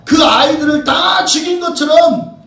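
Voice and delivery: rising shout from the pulpit, pressing every phrase; fiery preaching. Acted. Preacher proclaiming to the congregation, shouting fervently. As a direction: cry the story out to the congregation.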